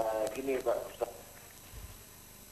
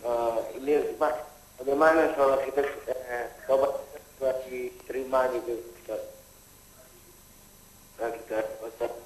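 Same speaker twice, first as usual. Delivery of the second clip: half robot voice. Real, not acted. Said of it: "Suaranya seperti robot".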